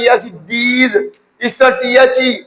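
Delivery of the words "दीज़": डीज begun with a soft dental d, long ee; TH as daal. Shown as a demonstration. Teacher showing TH as daal, डीज with dental d and long ee. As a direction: start डीज like the letter daal, end on z. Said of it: "दाल की आवाज दे रहा है".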